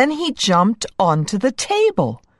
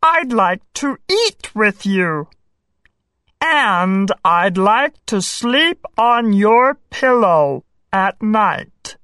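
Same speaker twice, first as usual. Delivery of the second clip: earnest talking-frog voice; storybook frog, gently insistent; frog character; 2 semitones higher than usual. A narrator's reading. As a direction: ask for friendship in a put-on frog voice. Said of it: "said the frog".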